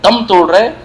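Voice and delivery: slow, drawn-out retold anguish; mournful appeal, lightly acted; pained lament. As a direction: stretch the words with grief. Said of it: "بڑے درد سے کہا".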